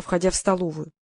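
ordinary delivery

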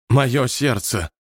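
slow, rasped-out words; hoarse wheeze. Acted. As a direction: wheeze it out, struggling. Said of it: "прохрипел Уоллес". (хриплый голос)

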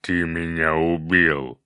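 slow growled accusation; growling fire demon. A narrator's reading. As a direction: growl the blame slowly. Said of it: "прорычал демон огня".

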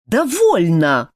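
a mild slow shout. A narrator's reading. Prince begs to stop the dunking, mild shout. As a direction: call out to stop it. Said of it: "тут же закричал тот".

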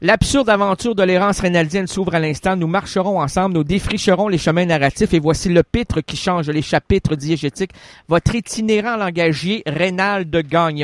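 grand radio host opening the show; show intro narration. Acted. Host opening his absurd show, grand announcer read. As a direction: announce the show with mock solemnity.

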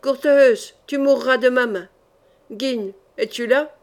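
loud, defiant challenge; defiant battle cry; cried out. Acted. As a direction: call them out to fight. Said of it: "Il cria".

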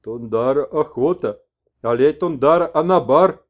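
slow then loud; shaman messenger. Acted. Messenger answers the old man about hunting, loud. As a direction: exclaim it.

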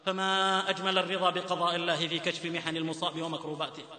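measured preaching cadence, lingering on each virtue; solemn preacher listing the virtues of the forebears; sermon exhortation. Acted.

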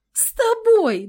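high, loud disbelieving squeak; can't believe the offer; incredulous. A narrator's reading.

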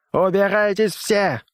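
high, slow enraged roar. A narrator's reading. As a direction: drive everyone out with a bellow. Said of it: "взревел Оверхольц".

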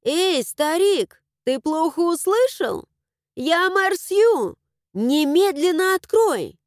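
loud, high, slow outraged demand; indignant shout. A narrator's reading. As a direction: bark it at the old man. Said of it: "возмущённо".

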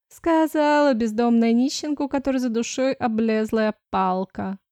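nasal sneering taunt; nasal jab. Acted. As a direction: needle her through the nose. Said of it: "гнусаво поддела Клариса". (гнусаво, с подколкой)

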